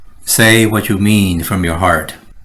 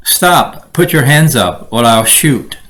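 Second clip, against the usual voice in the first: police command. Shown as a demonstration. Police officer ordering a suspect, commanding. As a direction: bark it like a cop. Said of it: "Be serious, mean what you say".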